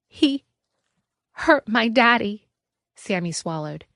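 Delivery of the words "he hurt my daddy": put-on high, small child voice; a frightened little boy speaking up. A narrator's reading. Sammy telling Anna about his father, childlike.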